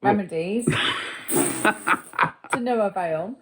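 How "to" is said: slow, drawn out. Real, not acted. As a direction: stretch the words out. Drawn out after laugh.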